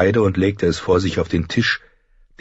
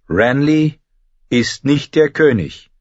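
lightly voiced firm objection, higher pitch; firm young lord; 7 semitones higher, slower than usual. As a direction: state it as a correction to the council. Robb objects in the council.

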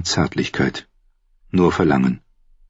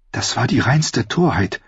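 lightly voiced scolding woman, higher pitch; reproachful Cersei; 6 semitones higher than usual. Sister calling their tryst folly, higher reproachful voice.

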